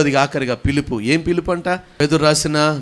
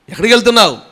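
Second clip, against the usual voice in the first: lightly acted challenge, raised and louder; incredulous questioner; 7 semitones higher, 6 dB louder, much faster than usual. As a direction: press the question at someone who seems mad. Neighbours challenge Abraham as he leaves. (నిలదీస్తున్నట్టు గొంతు పెంచిన ప్రశ్న)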